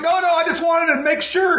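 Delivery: high-pitched panicky backpedalling; freaking out. Retold or imitated. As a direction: re-enact a frantic attempt to placate him. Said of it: "freaking out".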